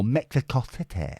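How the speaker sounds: badly faked foreign accent on Mexico City; Mexico City in a mangled put-on accent; unidentifiable accent. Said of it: "I don't know what accent that was".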